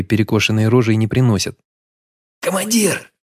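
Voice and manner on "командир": high urgent call from afar. A narrator's reading. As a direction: call the commander while still running. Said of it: "крикнул кавалерист". (взволнованный окрик издалека)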